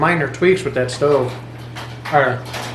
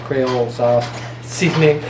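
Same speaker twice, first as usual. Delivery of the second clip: laughing. Real, not acted. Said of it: "I always say it wrong".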